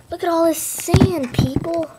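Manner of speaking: excited show-off. Pretend. Presenting sand to viewers.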